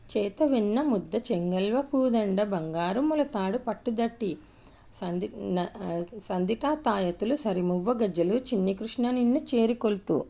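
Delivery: slow, sing-song recitation; reciting a children's rhyme. Shown as a demonstration. Teacher reciting the Krishna rhyme to children. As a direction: chant it slowly for young pupils.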